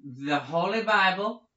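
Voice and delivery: light fifties radio announcer; mock old-time sponsor read; 1950s announcer. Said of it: "'cause I'm a nineteen fifties announcer".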